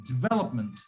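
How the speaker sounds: "development" with DI almost swallowed, VE stressed; very soft DI. Shown as a demonstration. Teacher repeats for the learner, soft DI in "development". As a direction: let "development" fall low after a strong VE. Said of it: "my D I is very soft".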